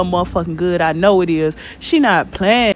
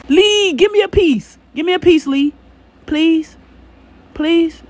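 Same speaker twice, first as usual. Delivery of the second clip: higher, pleading whine for a bite; playful begging; 7 semitones higher than usual. Pretend. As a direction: beg like a kid wanting a taste. Begging the cook for food.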